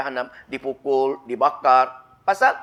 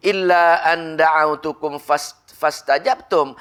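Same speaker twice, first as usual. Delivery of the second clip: slow, drawn-out chanted verse; Quranic recitation; much slower than usual. Acted. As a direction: intone it slowly, holding the vowels.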